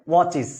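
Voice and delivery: ওয়াচিস said as wo-chis, ending in a clear -is; pronunciation demo. Shown as a demonstration. Teacher models ওয়াচিস for students, clear -is ending. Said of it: "উচ্চারণটা কি হবে?".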